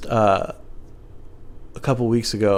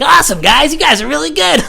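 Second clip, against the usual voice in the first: high, loud over-eager praise; fake praise; 7 dB louder than usual. Praising the rappers between songs, high forced cheer. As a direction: gush at them in a much higher voice.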